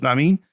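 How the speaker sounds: "Na mean?" clipped to two syllables, nah-meen; Ohio slurred "na mean". Shown as a demonstration. Repeating his old Ohio phrase, slurred into two syllables. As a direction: say "Na mean?" as one quick slur. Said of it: "six words that turned into two syllables".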